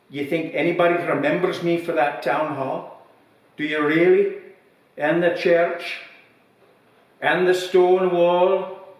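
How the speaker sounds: put-on old villager's voice, slowing to a dragged-out grievance; bitter old man. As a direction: let the list of complaints drag out slowly. Old man in pub joke.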